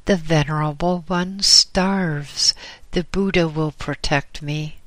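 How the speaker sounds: put-on weary young monk, mildly pleading; lightly voiced young monk. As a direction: plead for food with a hint of urgency. Young monk insists on leaving.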